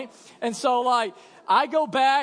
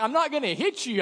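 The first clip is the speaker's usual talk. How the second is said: laughing; 5 semitones higher than usual. Retold or imitated. Laughing refusal.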